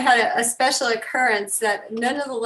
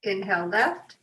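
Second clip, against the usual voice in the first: guided breathing. Real, not acted. Leads breathing exercise.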